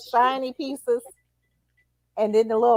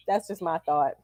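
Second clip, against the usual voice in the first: whispering; 5 semitones lower, 4 dB quieter than usual. Real, not acted. Quiet aside after political point.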